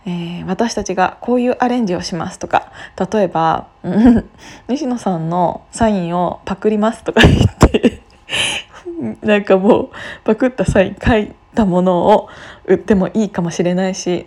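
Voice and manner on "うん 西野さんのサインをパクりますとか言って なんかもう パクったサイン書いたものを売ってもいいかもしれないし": giggling through the words; laughing. Real, not acted. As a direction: laugh while joking it out. Joking about copying signature.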